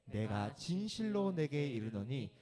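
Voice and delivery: slow, grave promise; solemn Jesus. Acted. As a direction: speak it like a holy vow. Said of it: "예수께서 이르시되". (강도에게 약속하는 예수, 아주 느리고 엄숙하게)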